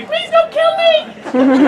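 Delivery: high, slow, hammed-up plea; drawn-out comic begging; mock pleading. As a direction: beg for your life with a laugh. Romeo begging Tybalt, joked.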